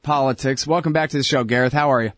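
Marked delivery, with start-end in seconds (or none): 0.0-0.6 headline writer voice. Pretend. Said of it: "starting to talk like a Middle East Eye headline writer".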